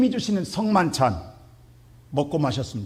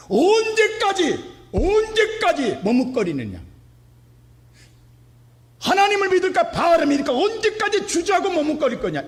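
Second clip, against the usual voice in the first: Elijah's challenge; 11 semitones higher, 3 dB louder than usual. Retold or imitated. Preacher voicing Elijah rebuking the wavering people. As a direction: stretch out each word like a prophet's rebuke. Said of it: "엘리야가 뭐라고 그랬어요?".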